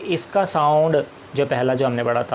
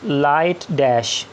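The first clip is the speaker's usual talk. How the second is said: "लाइट डैश" said slowly and deliberately; धीरे से "लाइट डैश"; slow emphasis; much slower than usual. Shown as a demonstration. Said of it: "इसको represent करेंगे लाइट डैश से".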